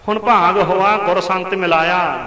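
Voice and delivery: slow, drawn-out recital of a holy verse; slow reverent verse reading to the congregation; scripture recitation. Acted. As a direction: stretch each phrase like a recited hymn line.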